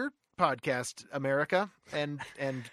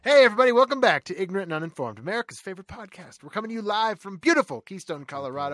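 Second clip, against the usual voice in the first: manic; 3 semitones higher, 7 dB louder, faster than usual. Acted. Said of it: "I've had six coffees".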